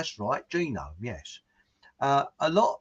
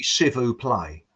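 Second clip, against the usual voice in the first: Cockney French; slower than usual. Retold or imitated. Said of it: "So it's called Blarney".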